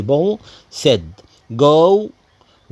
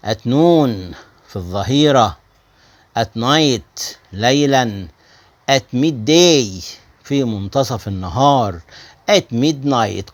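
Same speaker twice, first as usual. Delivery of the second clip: 1 slow model phrases; slower than usual. Shown as a demonstration. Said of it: "teacher models at phrases".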